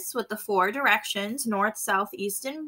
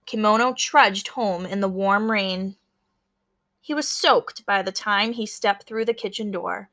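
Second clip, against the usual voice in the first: story narration. A narrator's reading. Teacher reading a picture book to her class, storytelling. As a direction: tell the storm scene to the class.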